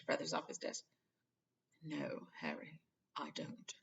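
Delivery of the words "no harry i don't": somber. A narrator's reading. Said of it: "his face was somber again".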